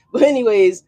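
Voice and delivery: laugh, then slow and loud, all in; hyped-up let's-go call; laughing hype. Real, not acted. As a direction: pump the viewers up after a laugh. Laughing, hyped start of reading.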